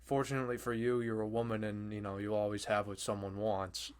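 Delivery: soft, matter-of-fact calm delivery; retold calm menace. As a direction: imitate the dealer's calm, keeping it quiet. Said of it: "She just said it so calmly".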